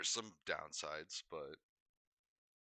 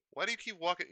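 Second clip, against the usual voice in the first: mock puzzled stranger; 11 semitones higher, 7 dB louder than usual. Retelling strangers staring at him.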